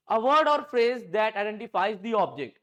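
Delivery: slow, word-by-word dictation. Shown as a demonstration. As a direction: spell it out slowly for notes. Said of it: "चलो यहां पर note करो". (धीमे-धीमे लिखवाना)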